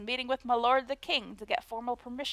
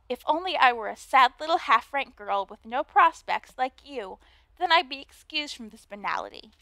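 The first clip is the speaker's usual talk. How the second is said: put-on Valley Girl voice. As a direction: play the snooty mean girl, Valley Girl style. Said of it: "a Valley Girl voice".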